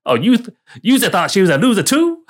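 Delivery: a hammed-up, rising fake Italian accent; horrible Italian accent. A friend mocking Luigi in a bad Italian accent. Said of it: "that was a horrible Italian accent".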